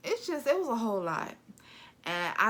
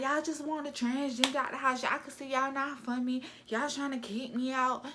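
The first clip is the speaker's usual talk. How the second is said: higher whiny mock voice, lightly voiced; mocking Cindy; 5 semitones higher than usual. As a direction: mimic her complaining she is being pushed out. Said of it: "So she was just like".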